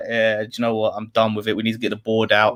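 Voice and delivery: low, fed-up resignation; mildly downcast, as if done with it all; retold dejection. Fan fed up with the football and the board, mildly depressed. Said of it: "depressed as anything about the football".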